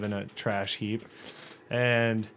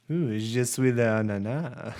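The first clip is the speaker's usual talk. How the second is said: mock romantic French. Shown as a demonstration. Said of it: "very romantically".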